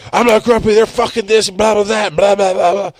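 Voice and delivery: hammed-up self-pity, trailing into blahs; whiny defensive rant. Mocking his past self denying grumpiness, whiny sing-song.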